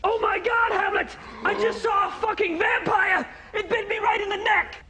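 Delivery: overacted stage terror; mock vampire-bite panic; hammed-up panic. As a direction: cry out as if bitten. Actor playing bitten Othello.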